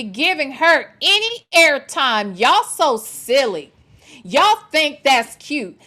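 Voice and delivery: slow, deliberate reading with punched words; measured, emphatic message read; emphatic read-aloud. Acted. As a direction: read it out slowly, driving each point home.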